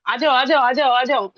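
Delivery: a mock warm beckoning, hammed up a touch; excited welcome. Ma'am welcoming her upstairs with a hug, eager call. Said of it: "ऐसे गले लगा".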